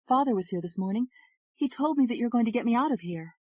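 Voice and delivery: cling to the hope in her father's words; fragile young woman. Acted. Jailed Ashley telling her lawyer, hopeful.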